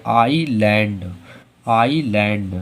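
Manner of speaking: आईलैंड said low as "ailand" with a silent S; model pronunciation. Shown as a demonstration. Teacher reads आईलैंड for the class. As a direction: drop the S in आईलैंड. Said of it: "तो इसे क्या पढ़ेंगे?".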